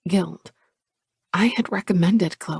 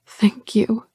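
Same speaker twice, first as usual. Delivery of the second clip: murmured; 5 semitones higher, 3 dB louder than usual. Acted. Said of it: "she murmurs".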